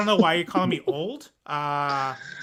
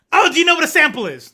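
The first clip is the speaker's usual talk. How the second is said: mock condescension; 9 semitones higher, 10 dB louder than usual. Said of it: "And I'm like".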